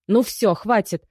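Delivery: loud high cutting-off shout; sharp shout. Acted. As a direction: shut the men up at once. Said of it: "прервала его окриком". (резкий окрик)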